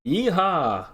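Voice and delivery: gleeful holler; cowboy whoop. Acted.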